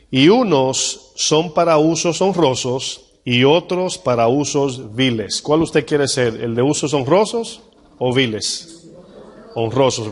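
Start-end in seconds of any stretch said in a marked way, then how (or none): 0.1-5.4 solemn scripture reading. Acted. Reads scripture slowly.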